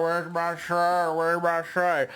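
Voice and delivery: slow, droning imitation of a woman out of it; incoherent sick woman. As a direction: mimic someone wailing while rolling around. Imitating sick woman rolling around.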